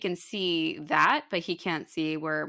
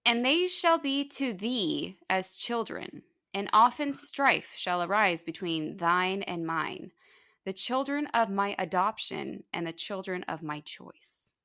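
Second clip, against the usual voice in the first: solemn quote reading. Shown as a demonstration. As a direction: read it grandly like old scripture.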